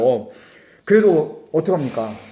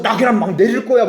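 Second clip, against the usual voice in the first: irritated threat; 4 semitones higher than usual. Retold or imitated. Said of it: "막 이렇게 얘기해요".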